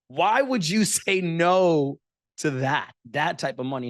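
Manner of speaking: high, slow, laughing mock disbelief; retelling the hosts' stunned question, laughing. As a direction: ask it through a laugh, like it's absurd. Hosts' incredulous question, retold.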